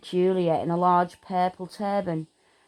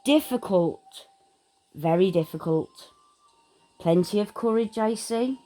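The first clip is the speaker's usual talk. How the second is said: small voice. Acted. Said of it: "said a small voice in his ear".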